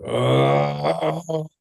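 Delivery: long, high "oh" moan; imitated crying moan. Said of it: "crying like that. It was just like".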